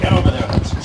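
shouting. Acted. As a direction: yell across the room at him. Dog running loose, shouting.

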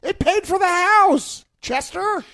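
high put-on voice of a rich father; mock rich dad voice. Friends riffing on a video, mock rich father voice. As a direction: play the entitled old rich man. Reacting to music video clip, mocking.

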